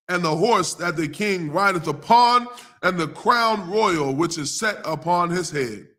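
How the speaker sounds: slow, measured King James reading; solemn Bible reading voice; scripture reading. Acted. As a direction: read the verses with weight. Reads scripture passage aloud.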